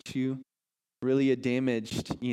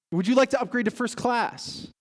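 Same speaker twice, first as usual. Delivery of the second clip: chirpy attendant; 10 semitones higher, 4 dB louder than usual. Acted. Flight attendant offer quote.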